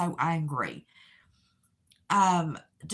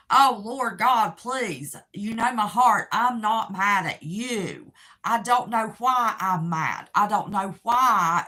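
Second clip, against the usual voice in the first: higher, louder pleading to God; desperate retold prayer; 3 semitones higher, 5 dB louder than usual. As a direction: cry out to God in confusion.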